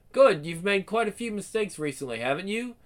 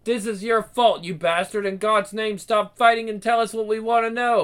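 angry demand; 3 semitones higher, 5 dB louder than usual. Acted. Angry interrogation.

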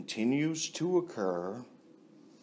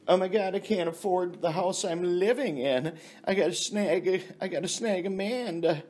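mock panicked woman; 6 semitones higher than usual. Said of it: "they go".

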